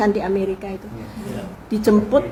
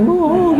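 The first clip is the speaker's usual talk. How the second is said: one retold sob, higher and louder; mock sob; 7 semitones higher, 5 dB louder than usual. Retelling Bung Karno weeping at the grave, mock sob. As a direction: voice the sob that could be heard. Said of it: "suaranya kedengeran".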